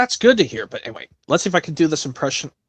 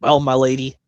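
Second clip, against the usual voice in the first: Burnett Stone voice; 4 semitones lower than usual. Retold or imitated. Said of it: "Burnett Stone says".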